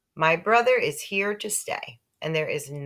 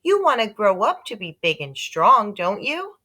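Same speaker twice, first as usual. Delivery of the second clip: higher, louder coaxing mother; 5 semitones higher, 5 dB louder than usual. Acted. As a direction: sell him on growing big. Mother coaxing toddler to eat.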